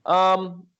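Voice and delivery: talking between sips of soda; drinking a soda. Real, not acted. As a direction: speak right after a gulp of cola. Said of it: "I'm sorry I'm drinking a Coca-Cola here".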